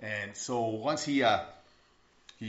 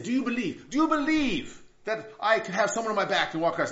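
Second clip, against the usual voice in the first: raised, high-pitched challenge; rousing showman; 7 semitones higher, 4 dB louder than usual. Acted. Tightrope walker rouses the cheering crowd, high showman's call. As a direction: work up the crowd, voice lifted and loud. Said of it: "Or he said".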